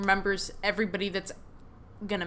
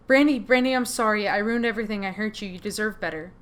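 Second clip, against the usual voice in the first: tearful mother's apology; 4 dB louder than usual. Acted. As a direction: beg forgiveness as a remorseful mom. Ghost mother apologizing to daughter.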